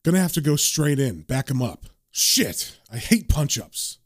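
lightly voiced, low inner monologue; understated dismay; John's reluctant narration. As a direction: grumble it to yourself in character.

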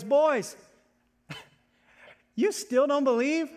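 laughing. Pretend. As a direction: gently rib your friends with a laugh. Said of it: "Jesus starts to laugh and goes".

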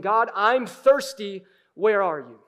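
a pleading call, held back a little; mild cry out. Acted. Psalmist calling out to God, slow loud plea. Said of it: "he's crying out to God".

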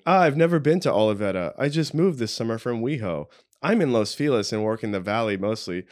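lightly put-on texting voice. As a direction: read your own text in a put-on voice. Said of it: "I love your voice just then".

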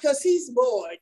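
high, sassy brush-off to rival wives; sassy dismissal. Retold or imitated. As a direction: tell them to go on, mocking. Mocking other wives.

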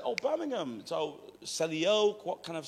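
badly faked Birmingham accent, lilting high; mock Brummie, stretched out; failed Brummie accent. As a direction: have a clumsy go at Brummie. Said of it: "That was my failed Brummie accent".

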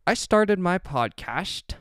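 high, drawn-out, silly announcement; odd put-on delivery. Real, not acted. Host slipping into a funny way of announcing the podcast, odd put-on delivery. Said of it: "why I started talking like that".

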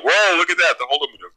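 a touch of remembered excitement; retold hype. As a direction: act out being wowed at first sight. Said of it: "I was hyped for that".

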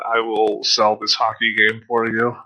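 lightly voiced solemn pitchman, measured and low; Shigesato Itoi. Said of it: "like Shigesato Itoi himself flew to America".

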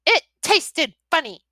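put-on high, loud pouting child; a sulking little girl talking back; high sulky young dragon girl. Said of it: "Sammy Joe said sulkily".

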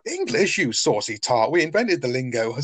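lightly voiced cheeky Del. Del teasing the German girl, high and cheeky. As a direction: jump up high on English, then chirpy. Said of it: "And Del's like".

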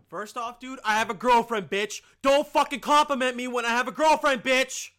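loud, hammed-up outrage with a high push; mock furious rant. Mock-ranting at the lady who complimented his smile, loud and outraged. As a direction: snap it out like a fake tirade.

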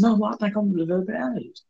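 put-on high pleading young voice; pleading son. Son pleads with his mom about allergies, high pleading. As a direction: beg mom to believe you.

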